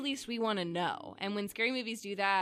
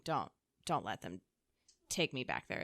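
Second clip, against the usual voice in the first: frightened plea; 11 semitones lower, 7 dB quieter than usual. Retold or imitated. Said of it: "the idea of her coming back and saying".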